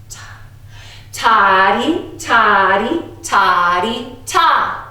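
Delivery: spoken ta and toddy on the beat; clap-out rhythm for echo; rhythm syllables. Shown as a demonstration. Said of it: "echoing me back".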